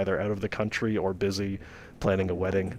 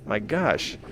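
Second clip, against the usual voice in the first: holding back a scream; 5 semitones higher, much slower than usual. Real, not acted. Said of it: "I'm trying not to scream right now".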